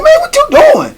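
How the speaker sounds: very high mock-alarmed cry; alarmed protest. Man facing the bat, very high alarmed protest. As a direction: protest in a squealing, imitated panic. Retold startled reply in confrontation.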